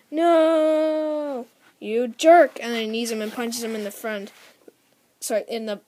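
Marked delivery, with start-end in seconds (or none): 0.1-2.6 high, loud shout at the villain; a kid hero's loud outraged cry; angry yell. Acted. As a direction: yell it at the bad guy who killed your friend. Hero yells at the villain.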